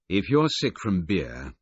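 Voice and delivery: slow, loud and forceful; firm telling-off. Acted. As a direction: lay it down hard and slow. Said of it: "I said forcefully".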